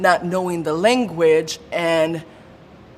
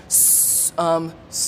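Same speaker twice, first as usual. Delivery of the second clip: stuttering; 4 dB quieter, slower than usual. Real, not acted. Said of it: "the words would not come out".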